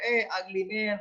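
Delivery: ordinary delivery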